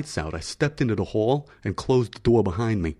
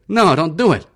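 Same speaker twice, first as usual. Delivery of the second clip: begging; 8 semitones higher, 7 dB louder than usual. Acted. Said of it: "Aspasia begged".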